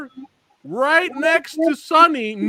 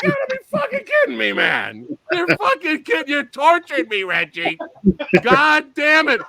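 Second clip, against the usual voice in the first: mock outrage; 4 semitones higher than usual. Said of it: "I'm like".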